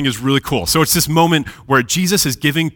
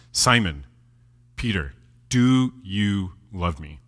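low, soft, slow question; tender questioning; 5 semitones lower, 5 dB quieter, slower than usual. Retold or imitated. Jesus asks Peter after his denial, tender questioning. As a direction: ask it gently, drawing out each word.

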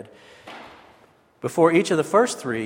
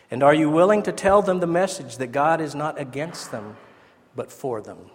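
lightly imitating a higher German-accented voice. Barth asking young pastors a question, in a light German accent. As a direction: give Barth's words a raised pitch and a German accent. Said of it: "He had kind of a high voice with a German accent".

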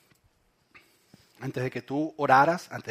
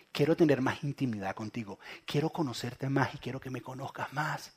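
lower, softer, intimate appeal; llamado tierno; 4 semitones lower, 9 dB quieter than usual. Acted. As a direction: gently invite someone closer. Voicing Jesus calling tenderly to listeners. (invitación tierna en voz baja)

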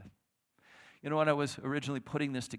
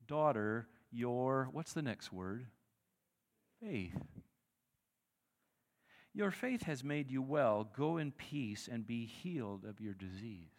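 gracious; slower than usual. Acted. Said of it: "the most gracious way".

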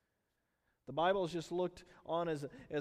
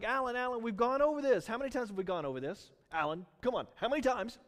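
higher, louder, weary scolding; a patient parent at wit's end; exasperated God; 5 semitones higher, 4 dB louder, faster than usual. Retold or imitated. God to Alan, louder exasperated nagging. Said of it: "And God's like".

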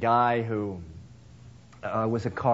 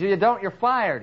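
high, louder firing order; boss yelling; 7 semitones higher, 3 dB louder than usual. Retold or imitated. Shop owner firing the mechanic with a raised voice. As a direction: bark it like a boss losing patience.

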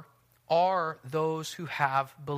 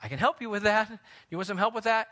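nice helpful offer; 5 semitones higher, 4 dB louder, much faster than usual. Retold or imitated. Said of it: "very nicely saying".

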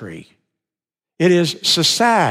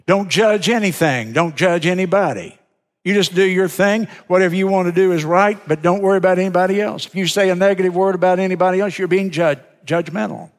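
mock popular opinion; 2 semitones higher, faster than usual. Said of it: "number one value of our culture".

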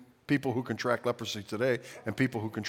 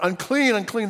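high, loud unclean cry; yelled warning; 9 semitones higher, 6 dB louder than usual. Retold or imitated. Lepers crying out on the road, high yelled warning. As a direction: shout it to keep people away. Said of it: "yelling out".

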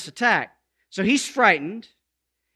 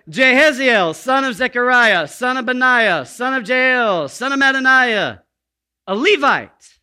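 pompous genealogy reading; 4 semitones higher, 6 dB louder than usual. Acted. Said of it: "It just sounds like a broken record".

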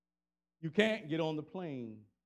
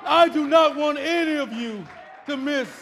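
raised, declaiming sermon voice; impassioned preaching; 6 semitones higher, 10 dB louder than usual. Real, not acted. Preacher leaving word for wife and mother, impassioned preaching. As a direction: proclaim it in emphatic, rolling phrases.

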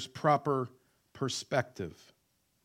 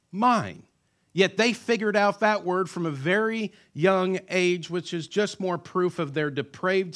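preaching climax; 6 semitones higher, 5 dB louder than usual. Real, not acted.

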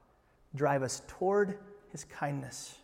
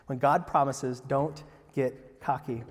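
slow emphatic repeat; slower than usual. Shown as a demonstration. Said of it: "repeated slower for emphasis".

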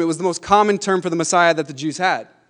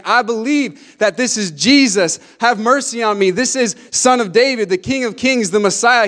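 retold cry of conviction, preached at raised pitch; strong yell; 4 semitones higher, 3 dB louder than usual. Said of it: "a real strong yell".

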